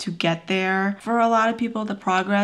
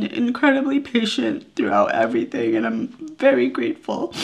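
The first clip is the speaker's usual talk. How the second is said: voice breaking; 3 semitones higher than usual. Real, not acted. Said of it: "I'm probably gonna cry again".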